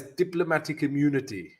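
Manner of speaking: put-on quick, tentative South African accent; South African accent attempt. Trader quotes Lethal Weapon two to viewers, attempted South African accent. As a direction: try a film villain's South African accent. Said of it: "I cannot do a South African, uh, accent".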